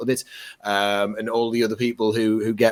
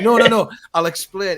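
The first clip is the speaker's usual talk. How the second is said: higher mock-placating protest; hurried explaining; 9 semitones higher, 3 dB louder than usual. Woman stepping in to calm the fans, hurriedly. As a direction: lightly act out stepping in to explain.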